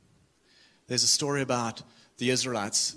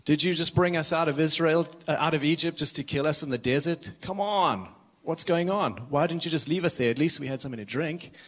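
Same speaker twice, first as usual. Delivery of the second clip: higher, whiny complaining crowd; grumbling Israelites; 4 semitones higher than usual. Retold or imitated. Thirsty Israelites complaining to Moses, whiny and higher. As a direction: moan at Moses like thirsty people fed up. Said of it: "they start grumbling and they start moaning".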